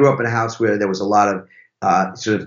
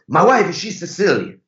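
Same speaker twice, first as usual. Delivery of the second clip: higher-pitched mock Italian husband; awful Italian accent; 7 semitones higher than usual. Driver explains his wife to the visitors, awful Italian accent. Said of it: "That's an awful Italian accent".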